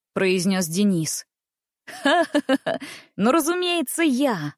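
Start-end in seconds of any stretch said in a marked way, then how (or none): 1.9-4.5 merry laugh. A narrator's reading. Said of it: "в весёлое настроение".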